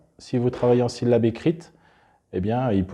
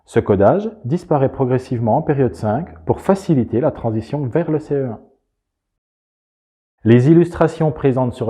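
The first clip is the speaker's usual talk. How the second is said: bright, louder promo narration; polished voiceover read; 3 semitones higher, 6 dB louder than usual. Acted. Narrator presenting the reading method in an advert voiceover read. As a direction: sell the method like an ad.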